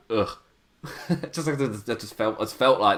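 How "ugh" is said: short groan of dismay; disgusted groan. Retold or imitated. Reading his notes on the wrestler, disgusted groan. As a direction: let out a short, weary ugh. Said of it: "he's just called".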